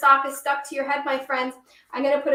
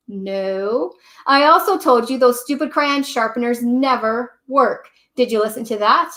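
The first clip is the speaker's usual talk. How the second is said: a fed-up Gold Crayon, read out loud and a little louder; grumpy crayon letter; 7 dB louder than usual. Acted. Storyteller reads Gold Crayon's grumpy postcard to Duncan, louder. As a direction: complain like a sulky crayon writing home.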